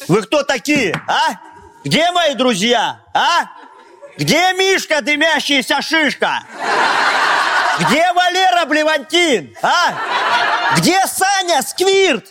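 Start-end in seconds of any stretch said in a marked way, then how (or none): 1.8-12.2 rowdy, laughing roll call; laughing party shout. Acted. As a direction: yell out your mates' nicknames. Drunk friend calling for party pals.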